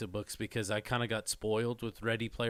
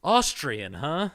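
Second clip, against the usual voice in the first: Jim Carrey impression; 3 semitones higher, 6 dB louder, much slower than usual. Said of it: "I'm like Jim Carrey in the beginning of Dumb and Dumber".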